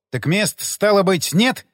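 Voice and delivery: plain reading voice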